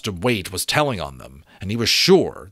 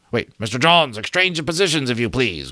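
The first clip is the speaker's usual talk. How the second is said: higher, called out to the crew through a speaking trumpet; calling through a trumpet; 4 semitones higher than usual. A narrator's reading. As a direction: project the order across the wind, higher. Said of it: "called through his speaking trumpet".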